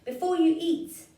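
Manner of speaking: high, loud hurried plea; mouse pleading. Acted. Mouse bargains with the hungry child, high and loud. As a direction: squeak it out quickly. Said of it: "said the mouse".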